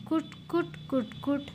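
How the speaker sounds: playful munching noise; nibbling sound. Acted. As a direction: squeak out the mouse chewing. Mouse nibbling puri in story.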